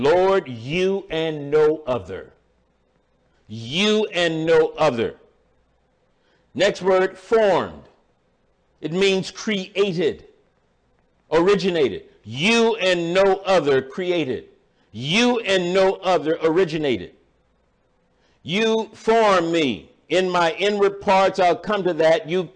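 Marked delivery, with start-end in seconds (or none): 0.0-5.2 slow, deliberate weight on "you"; emphatic YOU. Acted. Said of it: "It's emphatic. It's as if he is saying". 12.2-17.1 long stressed "You" opening each phrase; deliberate emphasis on "You"; emphatic YOU. Acted. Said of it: "It's emphatic". 18.4-19.9 "You" set apart with weight; very slow, deliberate "You formed me"; emphatic YOU. Acted. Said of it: "it is emphasized".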